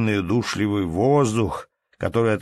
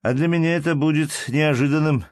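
much higher, gushing with delight; a gallant overflowing with delight; rapturous; 7 semitones higher, 3 dB louder than usual. A narrator's reading. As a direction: ensign gushing to the lady, mildly rapturous. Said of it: "воскликнул прапорщик восторженным тоном".

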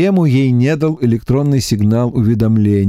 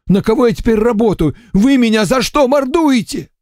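higher, whining lament, nearly tearful; lamenting emissary; 11 semitones higher than usual. A narrator's reading. Эмиссар причитает перед Варварой, плаксиво. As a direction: complain of being beaten all day. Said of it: "Закончил причитать?".

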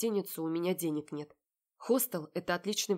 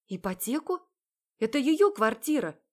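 raised, outraged disbelief; indignant; 6 semitones higher, 7 dB louder than usual. Acted. Heroine indignant at Marat about her sister's flat. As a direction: protest in indignation. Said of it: "возмущаюсь я".

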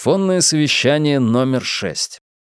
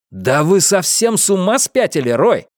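mildly raised, higher exclamation; indignant cry; 8 semitones higher, 3 dB louder than usual. A narrator's reading. Marcus protesting to Roy about adding spice, indignant cry. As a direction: cry out in protest, not a full shout. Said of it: "закричал я".

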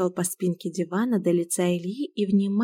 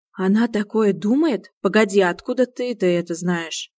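eager interest; 4 dB louder than usual. Acted. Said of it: "живенько заинтересовался Илья".

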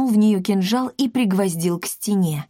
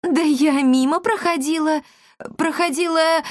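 fumbling excuse; 9 semitones higher than usual. A narrator's reading.

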